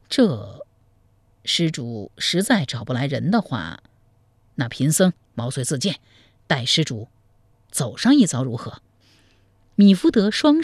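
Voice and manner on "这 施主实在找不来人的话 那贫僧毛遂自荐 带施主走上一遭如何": put-on lower, measured old monk's voice; a sly monk confiding gossip. Monk tells the groom about the bride, low and measured.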